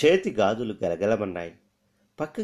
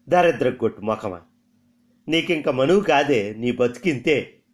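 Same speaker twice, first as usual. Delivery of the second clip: louder, fed-up cursing; exasperated scolding; 3 semitones higher, 4 dB louder than usual. Acted. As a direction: scold the girl, worn out and bitter. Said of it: "విసిగిపోయిన Veeramma తిట్టింది". (విసిగిపోయి తిడుతూ)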